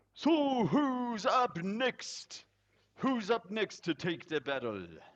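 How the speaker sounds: loud, echoing, booming, very high-pitched voice. Narrator voicing a voice from inside the cabin after a cheer, loud reverberating voice. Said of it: "a sort of loud voice that reverberates throughout this cabin".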